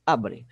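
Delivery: "Abre" with a firm A and falling "bre"; stress on first syllable. Shown as a demonstration. Teacher repeating the example word, "Abre" stressed on A. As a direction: lean on the A of "Abre", let the end drop. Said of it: "Sílaba tônica da palavra abre é A".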